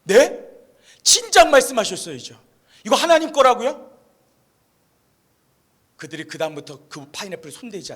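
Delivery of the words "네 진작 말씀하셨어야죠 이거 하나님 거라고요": louder, astonished retold reaction; acted shock with a protesting, questioning lift; startled surprise. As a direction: blurt it out, taken aback. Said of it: "원주민들이 깜짝 놀라는 거예요".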